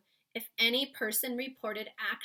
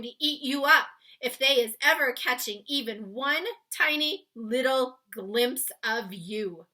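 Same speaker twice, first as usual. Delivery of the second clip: warning giant voice; 4 semitones higher, 12 dB louder than usual. Acted. Giant warning Sophie not to leave the cave. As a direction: warn her gravely. BFG voiced in read-aloud.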